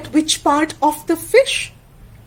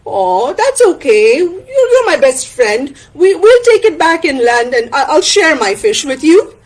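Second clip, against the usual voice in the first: a hint of eager, generous character; Tana, generous friend; 3 semitones higher than usual. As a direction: reassure your best friend, upbeat.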